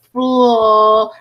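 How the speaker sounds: FLO- loud, with a long held L; exaggerated L. Shown as a demonstration. Teacher showing how the tongue rises, drawn-out L. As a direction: hold the L in flo-, pushed out firmly. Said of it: "quando eu vou falar esse L".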